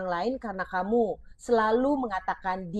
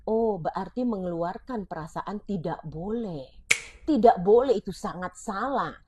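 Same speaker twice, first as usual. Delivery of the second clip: put-on hurt child; 2 semitones lower than usual. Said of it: "dia akan merasa".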